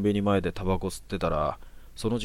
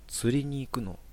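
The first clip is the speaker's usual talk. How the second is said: softer, a hint of a childish spacey girl; childlike airy speech; 5 semitones higher, 4 dB quieter than usual. Odd girl asks the man, lightly childlike and soft. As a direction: ask it lightly like a dreamy child. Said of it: "なんか幼い感じのひらがなしゃべり".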